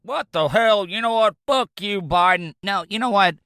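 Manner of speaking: high-pitched incredulous outburst; outraged disbelief. Real, not acted. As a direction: blow up in disbelief at the news. Reacts to prices doubling.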